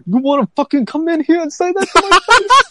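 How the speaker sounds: high, loud mock New York threat; hammed-up confrontational New York bartender; New Yorker accent. Bartender challenges a hassling caller, exaggerated New Yorker accent. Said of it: "how he talked to the customers".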